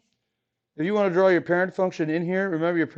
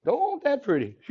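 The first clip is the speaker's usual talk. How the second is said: hammed-up Cajun, pitched much higher; Cajun saying; 9 semitones higher than usual. Teacher hamming up a Cajun phrase for the class, higher. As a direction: lean into the Cajun, big and high. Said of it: "That's how they say it in Cajun land".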